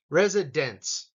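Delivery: Residence, slow, with the stress on dense; teacher's model, dense stressed. Shown as a demonstration. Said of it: "dense has the emphasis".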